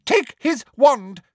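high loud slow bark; barked order. A narrator's reading. Umbridge barks an order to a helper, loud. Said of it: "she barked".

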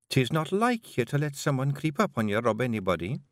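lightly voiced Scottish pixie wife, teasing; a gentle Scots lilt for Jeanie; a hint of a Scottish wife; Jeanie, Scottish Feegle wife.

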